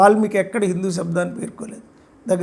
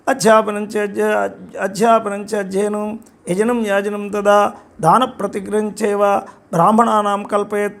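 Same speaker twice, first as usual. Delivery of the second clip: slow, measured shloka delivery; Sanskrit verse recitation. Shown as a demonstration. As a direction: recite the verse from memory, unhurried. (నెమ్మదిగా శ్లోకం చదువుతున్నట్లు)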